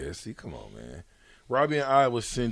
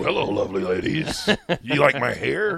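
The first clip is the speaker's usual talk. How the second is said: lightly voiced poolside creep; mock a creepy pickup line through laughter; creep at the pool; 3 dB louder than usual. Host mocking co-host as a creep at the pool, laughing. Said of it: "He at the pool".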